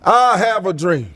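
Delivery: slow, lightly voiced preacher cadence; slow it down like a famous speech; Martin Luther King impression. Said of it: "What, Martin Luther King?".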